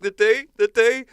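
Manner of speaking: high, loud, slow pirate insistence. Pretend. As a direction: keep the pirate voice going. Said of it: "And I was like".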